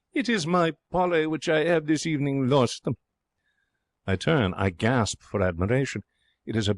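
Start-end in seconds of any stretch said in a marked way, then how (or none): 0.1-2.9 joyful lady. A narrator's reading. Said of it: "with joy".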